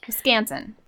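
Wisconsin said with a long open A, Wiscaansin; Wisconsin accent. Shown as a demonstration. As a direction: say "Wisconsin" the way locals do. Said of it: "I can say it in my Wisconsin accent".

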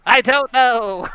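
high, slow leprechaun shrug. Retold or imitated. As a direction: still in the leprechaun voice. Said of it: "Why did you go with that voice?".

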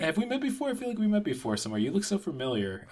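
catcalling. Pretend. Mocking a pickup line.

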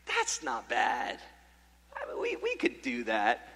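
sizing it up quietly, low-voiced; understated self-reassurance. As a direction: drop low and soft, playing down the climb. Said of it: "and I say".

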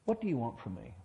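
gentle, restrained question; gently. Acted. The Lord facing each of us alone, asking gently. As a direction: ask it tenderly, without pressure. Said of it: "he just says gently".

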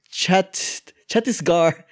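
put-on Indian accent. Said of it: "doing an Indian accent".

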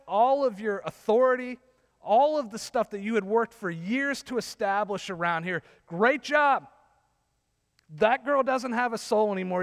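loud, high mock congratulations; retold rebuke at full preaching volume; sarcastic tirade. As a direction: raise your voice in scathing, sarcastic praise. Sarcastic tirade at the church leader.

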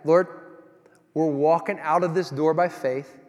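slow, reverent prayer spoken aloud; slow earnest prayer. Shown as a demonstration. Preacher shows friends how they pray before walking out, slow earnest prayer. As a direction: pray it slowly, asking to be sent. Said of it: "we pray and we ask God, just like that".

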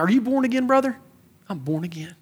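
hammed-up Southern church folk; Southern accent. Preacher mimicking born-again believers from his upbringing, Southern accent. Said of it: "I don't know why I'm Southern".

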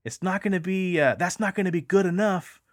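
high, loud, insistent shout; retold yell. Shouting again at the voices, loud and high. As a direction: yell it up at them to be heard. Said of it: "And then I yell out again".

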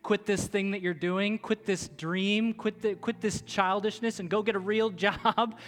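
lightly voiced mocking inner doubt, rising at phrase ends; a hint of a scoffing voice telling you to quit; nagging inner voice. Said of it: "that little voice that says".

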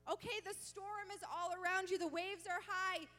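commanding voice of Jesus. Acted. Jesus to followers in the storm, commanding proclamation. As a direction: proclaim it with full preaching force. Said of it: "as if this whole time he's creating a narrative".

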